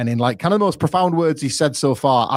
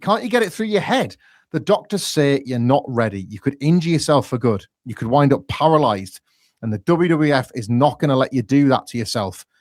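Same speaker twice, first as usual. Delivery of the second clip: fatherly tone; 3 semitones higher than usual. Retold or imitated. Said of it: "fatherly in tone".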